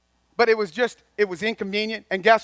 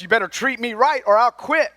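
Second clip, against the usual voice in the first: mock threat, pitched up with attitude; a touch of higher-pitched indignation; demanding volunteer; 4 semitones higher, 4 dB louder than usual. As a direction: lightly act an entitled volunteer laying down terms. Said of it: "A volunteer will sound like this".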